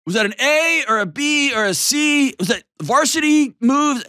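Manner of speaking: high, eager grading voice; mock performance review. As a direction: chirp it up like a coach scoring the game. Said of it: "don't be like".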